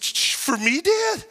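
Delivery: stammering, then voice leaping up on "Dad?"; a boy who can't believe his luck; excited kid. Retold or imitated. Boy asking his dad, thrilled, if the gift is his. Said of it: "And he said".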